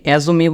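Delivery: "assume" turned into "assu-mee"; mispronunciation. Shown as a demonstration. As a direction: tack an ee onto the end of "assume". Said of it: "না, এটা একসাথে". ("assume"-কে ভুল করে "অ্যাজুমি" বলা)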